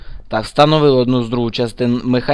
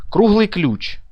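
"Круглий ключ" whispered, higher; 6 semitones higher, much slower than usual. Real, not acted. Player reading a strange item name, whispered. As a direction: breathe the item name to yourself.

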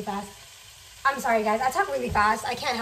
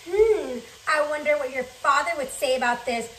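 sly teacher threat; slower than usual. Retold or imitated.

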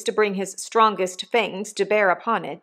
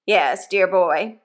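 hint of a coarse old convict talking to his boy; rough convict; slower than usual. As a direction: give the old convict a bluff, hearty push. Convict Magwitch voiced in story.

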